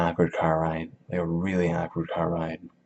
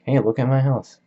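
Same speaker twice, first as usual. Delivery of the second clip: higher, louder bragging call; boastful shout; 7 semitones higher, 7 dB louder than usual. Retold or imitated. Tom to Gatsby before the hotel, loud bragging. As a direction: show off the house loudly. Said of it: "he's like".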